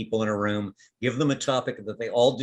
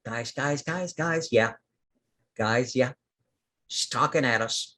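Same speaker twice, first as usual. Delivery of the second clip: little plant voice. Acted. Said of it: "this one voice again goes".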